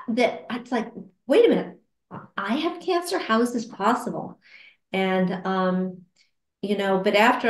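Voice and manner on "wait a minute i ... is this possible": higher, sudden disbelief; stunned disbelief. Retold or imitated. Retelling her own cancer diagnosis, stunned disbelief. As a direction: replay the shock of your own diagnosis. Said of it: "I was just stunned".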